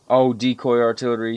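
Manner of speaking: ordinary talk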